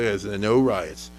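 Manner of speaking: a hint of a cold officer; stern army order. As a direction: lay down the law calmly but coldly. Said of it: "They say".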